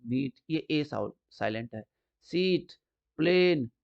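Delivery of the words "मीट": मीट with a long ee vowel; long E sound. Shown as a demonstration. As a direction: hold the ee in मीट. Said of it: "ई की sound आ रही है ना, long".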